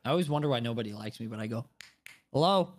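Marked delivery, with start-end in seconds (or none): 2.3-2.7 mild mock call for service; impatient customer. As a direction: call the bartender, not yet at full volume. Acts impatient customer calling bartender.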